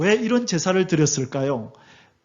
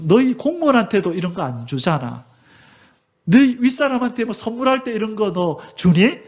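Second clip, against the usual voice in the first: angry God. Retold or imitated. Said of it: "하나님께서 진노하시는 거죠".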